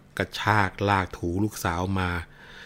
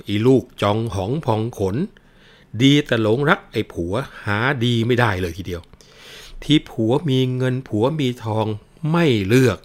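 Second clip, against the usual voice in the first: a mother's raised scolding voice; mother scolding her daughter, voice raised; loud scolding; 3 semitones higher, 4 dB louder than usual. Acted. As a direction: berate the daughter with rising force. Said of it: "ร้องด่าเสียงลั่นว่า".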